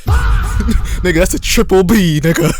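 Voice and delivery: high laughing yell; cracking up while shouting. Real, not acted. Laughing at own joke.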